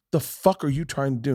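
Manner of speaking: berating. Retold or imitated. Mother to daughter over a joke, berating. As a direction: imitate a parent telling off a child. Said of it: "berated her".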